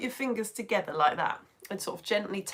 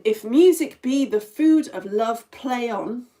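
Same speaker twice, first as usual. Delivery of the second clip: measured, rhythmic line of verse with the beat on "music"; slow iambic recital; iambic pentameter; 7 dB louder, slower than usual. Shown as a demonstration. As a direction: recite "If music be the food of love" slowly, in rhythm. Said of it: "is in iambic pentameter".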